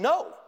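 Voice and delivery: "No" pitched high and punched loud; emphatic refusal. Retold or imitated. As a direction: hit "No" hard, high and final. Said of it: "his answer is very emphatic".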